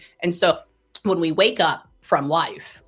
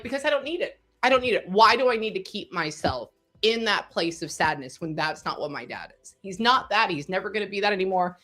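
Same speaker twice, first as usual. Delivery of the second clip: teary-eyed; 2 semitones higher than usual. Retold or imitated. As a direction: relive a teary protest, gently emotional. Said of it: "look at him all teary-eyed".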